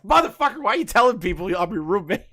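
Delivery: high-pitched retold indignation; mock outraged. Retelling complaint to roommate, mock outraged. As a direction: act out a comic protest, opening very high.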